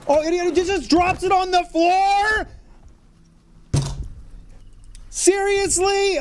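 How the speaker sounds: can't believe the boss dropped everything; incredulous outrage. Real, not acted. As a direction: squeal it in outraged disbelief. Boss drops his loot.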